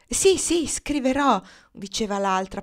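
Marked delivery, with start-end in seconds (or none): 0.1-1.4 as in a dream. A narrator's reading. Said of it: "parlando come in sogno".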